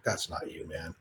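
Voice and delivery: whispering "That's not you, man" to himself, voiceless and soft; whispered self-talk. Retold or imitated. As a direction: hush "That's not you" under the breath, ashamed. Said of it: "I felt just shit".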